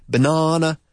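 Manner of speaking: teacher's model "ba-NA-na"; second-syllable stress. Shown as a demonstration. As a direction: stress the middle of Banana. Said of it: "Pues la segunda".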